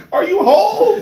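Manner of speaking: high, loud alarmed shout; mock panicked parent. Parent checking the child's body, mock panic.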